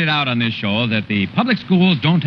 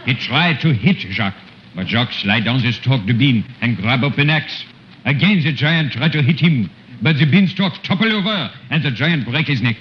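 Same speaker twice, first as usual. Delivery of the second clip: put-on storyteller with a thick French accent throughout; 2 semitones higher than usual. Comic uncle retelling Jack and the Beanstalk in French accent. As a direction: tell the fairy tale in broken French-accented English.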